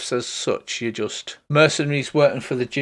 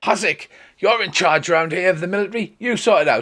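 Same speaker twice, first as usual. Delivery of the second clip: calling out, pitched high; 5 semitones higher than usual. Telling a story where a woman shouts to the guy in armour, retelling a shouted order. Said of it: "she shouts to him and goes".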